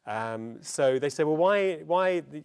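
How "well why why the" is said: loud, high mock incredulity; baffled objection. Agent balks at a free voiceover, loud mock-baffled protest.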